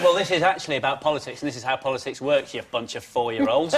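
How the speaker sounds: imitated politician. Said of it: "If he actually said".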